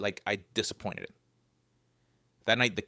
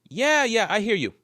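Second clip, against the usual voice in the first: loud mocking; 10 semitones higher, 5 dB louder than usual. Joking back at creaking trees.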